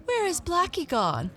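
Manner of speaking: very high worried cry. A narrator's reading. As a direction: cry out high for a missing cat. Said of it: "cried Missus Thompson".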